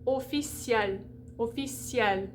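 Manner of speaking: officiel as "oh-fee-syel"; French J glide. Shown as a demonstration. Teacher reminding students of the glide, French pronunciation. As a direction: say "officiel" with a y glide and sounded final L. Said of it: "you're gonna get that little J glide".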